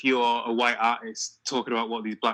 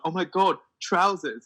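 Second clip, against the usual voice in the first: "Oh my God, trousers." with a higher, gushing American imitation; mock amazed American; 5 semitones higher, slower than usual. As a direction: marvel at "trousers." like an excited American teen. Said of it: "I'm like".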